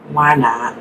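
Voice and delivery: casual Southern country drawl; country accent. Pretend. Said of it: "I just talked to that weird country accent".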